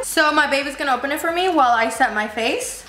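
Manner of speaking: lisping with new braces. Real, not acted. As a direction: speak with a slight lisp. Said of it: "I'm sorry if I sound like I have a lisp".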